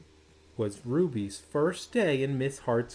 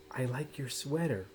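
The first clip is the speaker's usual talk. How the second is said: softer, hushed classroom whisper; a soft secret compliment; 7 dB quieter than usual. Acted. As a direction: hush it to the girl at the next desk. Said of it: "whispered Angela".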